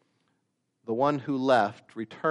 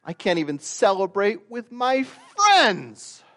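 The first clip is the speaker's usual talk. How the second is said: much higher, strained sulky complaint; whiny older son; 12 semitones higher, 6 dB louder than usual. Acted. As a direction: squeal it like a sulking son. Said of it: "He says this".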